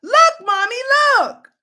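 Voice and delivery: put-on high, loud child's call; eager small boy showing his find; excited little boy. Boy shows mother his find, high child voice.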